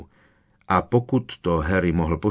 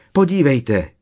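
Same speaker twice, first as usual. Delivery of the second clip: high, louder excited squeal; 6 semitones higher, 6 dB louder than usual. A narrator's reading. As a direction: squeal to make everyone look. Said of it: "vypískla Parváty". (vypísknout, vysoko a hlasitě)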